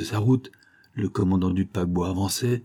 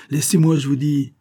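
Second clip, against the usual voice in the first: grumbling; 6 semitones higher, 4 dB louder than usual. A narrator's reading. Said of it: "en grommelant".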